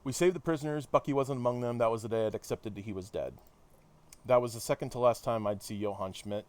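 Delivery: measured read-aloud of a hero's debrief; story narration. Acted. Hero recounting the London mission to listeners, narrated.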